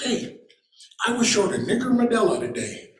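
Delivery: high, sly put-on voice of the driver; driver's taunt. Driver baiting the new guy within earshot, high sly voice. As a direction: toss it off to his buddy so the new guy hears.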